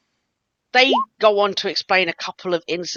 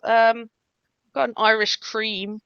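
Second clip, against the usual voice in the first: lightly raised barmaid voice; high-pitched; 4 semitones higher, slower than usual. Acted. Barmaid offering what she found behind the bar, slightly high-pitched. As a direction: lift the pitch a little for the character. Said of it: "you went high pitched".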